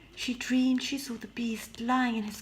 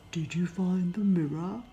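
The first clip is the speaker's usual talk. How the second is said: eager Beast; 5 dB louder than usual. Acted. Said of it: "he asked eagerly".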